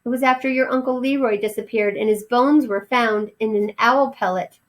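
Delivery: lightly high anxious mother; fearful mother mouse. Acted. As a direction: explain it with dread. Mother explaining fear.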